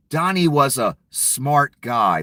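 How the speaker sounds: mock praise, said slowly with a sneer; dry sarcastic demo of a compliment. Shown as a demonstration. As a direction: say it so it means the opposite. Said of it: "That means I'm being sarcastic".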